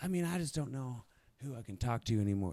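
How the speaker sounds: put-on local Michigan woman's accent. Retelling what a lady in an antique shop said, imitating her accent. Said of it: "had a fucking accent like this, y'all, and was, like, talking like this".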